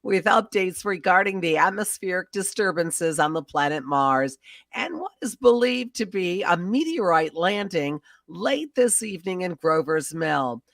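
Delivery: formal, measured bulletin read; radio news announcer. Acted. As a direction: announce it like a 1930s newscaster.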